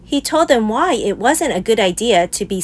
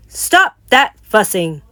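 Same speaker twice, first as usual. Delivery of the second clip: loud Papa voice; 4 dB louder than usual. A narrator's reading. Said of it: "in his loudest Papa Bear voice".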